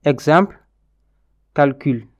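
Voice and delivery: calcul said the French way, kal-kyl; French calcul with a rounded u; French pronunciation. Shown as a demonstration. Teacher models the French word calcul first. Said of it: "se prononce différemment".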